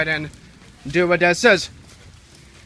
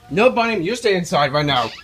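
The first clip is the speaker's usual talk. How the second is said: raised voice telling a dog off; firm command; 5 dB louder than usual. Real, not acted. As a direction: order the dog to stay in. Ordering the dog inside.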